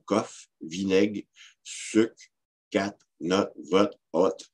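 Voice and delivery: "coffre, vinaigre, sucre" as "coff, vinaigue, suc"; final R dropped. Shown as a demonstration. Lecturer listing examples, "sucre" as "suc", final r silent. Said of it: "il n'est pas prononcé dans certains mots".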